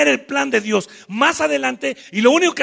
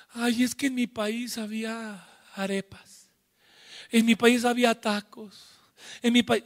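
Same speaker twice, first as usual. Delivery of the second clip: whiny students; 6 dB quieter than usual. Acted. Students complaining.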